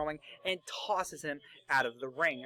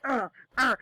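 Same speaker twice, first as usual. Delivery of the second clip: imitated grunts; 6 semitones higher, 6 dB louder than usual. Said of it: "Daniel Bryan is like".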